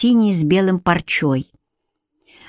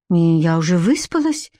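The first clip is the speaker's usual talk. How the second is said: understated, dry refusal; matter-of-fact, mildly cool retort; dry declaration; 2 semitones lower than usual. Acted. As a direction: state it drily, without heat. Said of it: "сухо объявила Бренна".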